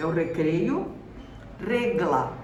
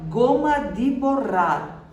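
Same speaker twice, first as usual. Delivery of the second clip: emphatic model phrase; 3 semitones higher, 4 dB louder, slower than usual. Shown as a demonstration. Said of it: "teacher models vocabulary".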